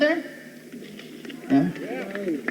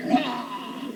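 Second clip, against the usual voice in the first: panicked mock plea; 10 semitones higher, slower than usual. Trapped inside a kiss, acted.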